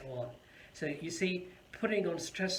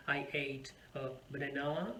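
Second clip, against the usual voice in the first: banana with the stress on the wrong syllable; verkeerde klemtoon; 2 semitones lower, 4 dB quieter than usual. Shown as a demonstration. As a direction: say banana oddly stressed, as a bad example. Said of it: "gonna sound really so weird".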